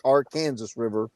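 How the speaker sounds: Arkansas River said as ar-KAN-zus River; local pronunciation. Shown as a demonstration. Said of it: "it's pronounced".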